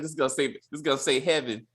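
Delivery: a hint of Dre's voice, mumbled; Dre impression. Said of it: "was that supposed to be a New York accent".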